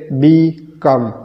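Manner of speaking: "बी कम" as two separate beats; syllable by syllable. Shown as a demonstration. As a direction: pause clearly between "बी" and "कम". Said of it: "ये वो तरीका है".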